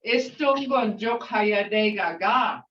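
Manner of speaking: "Jokayadega ga" with the extra ga at the end; group greeting. Shown as a demonstration. Teacher showing the class "Jokayadega ga" for a group. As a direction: add "ga" after "Jokayadega" for a group. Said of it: "if you wanna go to two or more".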